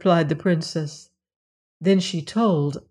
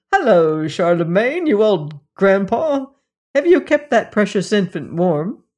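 louder, hearty greeting to the stork; calling out; 2 semitones higher, 4 dB louder than usual. A narrator's reading. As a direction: hail the stork across the snow. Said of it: "called out Tommy".

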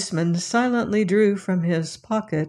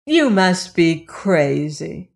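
spirited cry; slower than usual. Acted. Lilas defies the policeman, spirited cry. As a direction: throw it back at him with spirit. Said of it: "Lilas cried with a show of spirit".

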